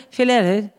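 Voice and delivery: Filere, sounded out as heard; mimicked foreign name. Stylist mimicking a colleague's call, sounded out. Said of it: "he said something, something".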